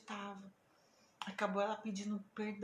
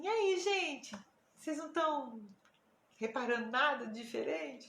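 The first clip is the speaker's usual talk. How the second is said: eager hinting; 4 dB louder than usual. Retold or imitated. Acts out fishing for notice.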